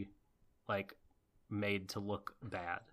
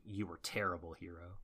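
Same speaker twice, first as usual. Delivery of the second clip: low-key retold mutter, trailing softer; muttering to herself; 3 semitones lower, 6 dB quieter than usual. Co-host retelling Ichigo's tearful final line, muttered softly. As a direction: imitate a quiet mutter that fades away. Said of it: "muttering to herself".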